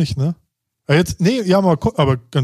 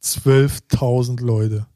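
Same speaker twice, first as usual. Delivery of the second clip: very slow, drawn-out disbelief; stunned repetition; 2 semitones lower, much slower than usual. Real, not acted. Cohost reacting to the club's capacity, stunned. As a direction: let the huge figure sink in word by word.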